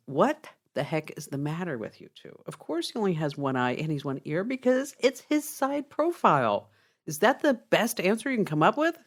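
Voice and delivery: acted exasperation, pitch climbing; rising, incredulous telling-off; frustrated policeman. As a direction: scold two hopeless trainees in mock frustration. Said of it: "So frustrated at this point".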